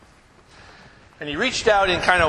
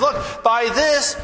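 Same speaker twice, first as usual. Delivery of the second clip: slow quote; 7 semitones higher, 3 dB louder, much slower than usual. Acted. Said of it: "He says".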